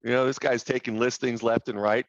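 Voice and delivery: normal talking voice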